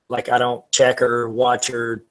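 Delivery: glitchy robotic connection; words breaking up like a robot. Real, not acted. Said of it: "sounding more and more like a robot".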